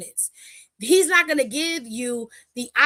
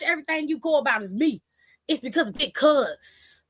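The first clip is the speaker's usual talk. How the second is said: imitating Roman; 2 semitones higher than usual. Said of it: "He said".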